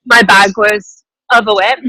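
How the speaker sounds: airport noise behind voice; talking from a busy terminal. Real, not acted. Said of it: "I'm in the airport right now".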